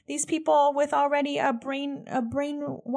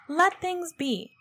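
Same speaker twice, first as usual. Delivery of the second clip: slow, higher, with a rueful laugh; laughing repeat; 6 semitones higher, slower than usual. Real, not acted. Podcaster repeating her own wish, laughing ruefully.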